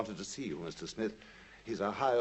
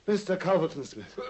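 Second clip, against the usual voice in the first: louder call; 4 semitones higher, 4 dB louder than usual. Acted. Watson calling out louder.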